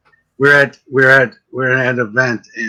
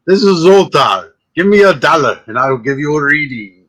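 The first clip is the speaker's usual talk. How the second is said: Zoltar. Acted. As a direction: proclaim it, stretching the first words. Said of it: "walk around and, and say".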